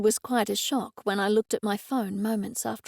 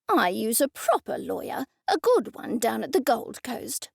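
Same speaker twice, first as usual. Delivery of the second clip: disdainful. Acted. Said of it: "said with disdain".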